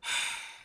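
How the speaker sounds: tired soft exhale; weary sigh. A narrator's reading. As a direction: sigh as if worn out. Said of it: "I sighed wearily".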